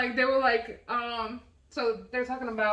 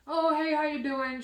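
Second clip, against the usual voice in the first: breezy, higher, drawn-out hello; retold cheery greeting; 4 semitones higher, slower than usual. Customer greeting a curt worker, retold cheery greeting. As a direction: greet them with an easy lilt.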